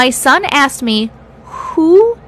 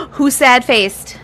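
gasp, then a slow mock-outraged question; mock shocked gasp; slower than usual. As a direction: gasp at the sad-face voter in mock outrage. Sees a sad-face vote.

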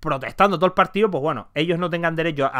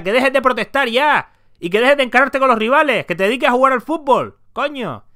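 mild stern telling-off; 4 semitones higher than usual. Retold or imitated. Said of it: "lo coja así por la pechera y le diga".

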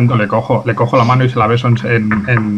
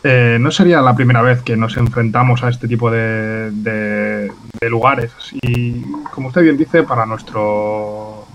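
put-on Italian accent. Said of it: "intento forzar un poquito un acento italiano".

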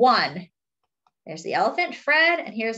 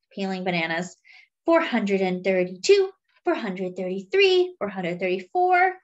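forgetful elephant. Acted. Fred the elephant agreeing with Monkey, lightly voiced and muddled.

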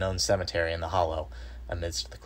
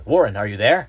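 loud, raised call with a questioning lift; 4 semitones higher, 10 dB louder than usual. A narrator's reading. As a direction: call anxiously to someone far below. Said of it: "Again I called down".

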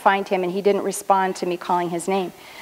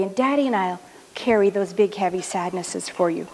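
tender reassurance. Retold or imitated. Mother comforts her small son.

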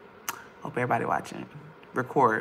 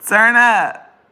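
laughing hype shout; 4 semitones higher, 8 dB louder than usual. Real, not acted.

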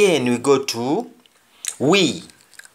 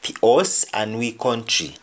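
Jamaican patois. Shown as a demonstration. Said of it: "Next example".

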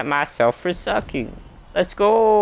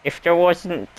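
strut like a showboating winner; hammed-up victory gloat; 3 semitones higher, slower than usual. Celebrating a win on stage.

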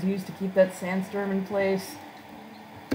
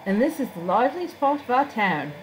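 higher, formal guide voice; courteous town guide; 6 semitones higher than usual. Acted. Guide leading Freya through town, courteous formal voice. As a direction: present the town as a polite guide.

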